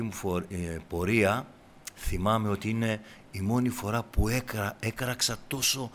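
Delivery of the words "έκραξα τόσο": ordinary delivery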